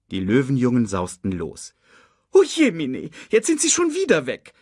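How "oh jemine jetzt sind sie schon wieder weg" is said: high-pitched character lament; wailing. A narrator's reading. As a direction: moan in dismay at being left behind. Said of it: "jammerte Sasu".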